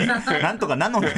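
mock the silly ending through laughter; King Bombi. Teasing junior's botched line, laughing villain imitation. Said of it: "キングボンビーみたいに".

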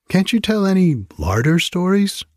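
high, demanding rat voice. Acted. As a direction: whine like a greedy rat. Rats demand other stories.

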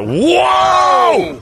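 high, long amazed shout; shouted whoa. Real, not acted. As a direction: gasp at the flips. Watching backflips.

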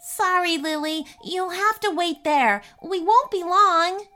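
christmas elf. Acted. Elf calls down to dog.

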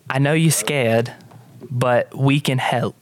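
put-on slightly halting British accent; attempted British accent. Hope tells scared girl we can help, tentative British accent. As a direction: try a careful, eloquent British voice. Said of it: "British, isn't it?".

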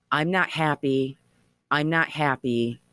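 a hint of an eerie recorded voice, measured cadence; restrained imitation of a voice in static; lightly imitated ghostly voice. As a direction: lightly mimic a spirit voice, each repeat set apart. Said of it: "weird cadence".

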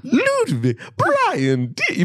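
high-pitched show intro voice; mock announcer call. Host playing with sound drops, high announcer call.

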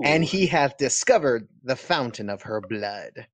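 mock-solemn Southern preacher reading scripture. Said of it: "let me get my Southern preacher voice on".

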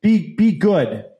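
slow, emphatic parental telling-off; hammed-up stern dad, each word leaned on; mock scolding. Dad pretends to tell off his son, mock scolding. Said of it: "I slap him in the face and I go".

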